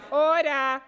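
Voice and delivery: shouting order order. Real, not acted. President calling chamber to order.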